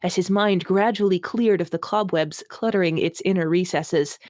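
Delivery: mock-grand reading of purple prose; hammed-up literary reading; dramatic reading. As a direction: read it like overwrought fantasy. Reading a bad novel aloud.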